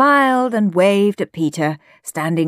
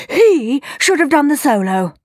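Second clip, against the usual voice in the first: higher-pitched, moderately indignant protest; indignant shout; 6 semitones higher, 3 dB louder than usual. A narrator's reading. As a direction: protest as an affronted mother, pitch raised. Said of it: "shouted another".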